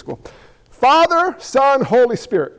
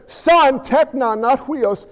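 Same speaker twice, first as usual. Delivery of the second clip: high, loud shouting mother, slowing down; a mother scolding her son at full pitch; exasperated mother; 6 semitones higher, 3 dB louder, much slower than usual. Retold or imitated. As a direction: cries "Behold!" high and loud. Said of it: "She says".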